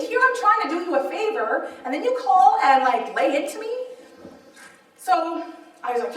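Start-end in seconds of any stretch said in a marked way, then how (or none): 0.0-3.7 higher, indignant mock complaint; worked-up, aggrieved protest; steamed. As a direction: retell your outrage, pitched up and punchy.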